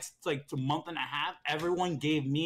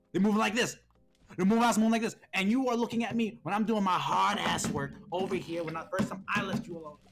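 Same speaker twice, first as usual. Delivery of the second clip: raised-pitch, exasperated retold rant; indignant protest; 4 semitones higher, 3 dB louder than usual. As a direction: imitate a student arguing back at the teacher. Kelvin's protest, acted out.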